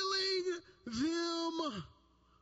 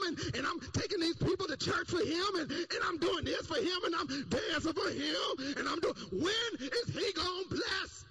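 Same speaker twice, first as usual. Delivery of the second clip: frustrated shout; 5 semitones higher than usual. Retold or imitated. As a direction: pile up every complaint. Disciple listing his work.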